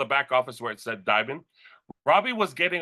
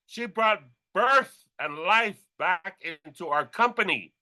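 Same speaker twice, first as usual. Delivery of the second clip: ordinary talk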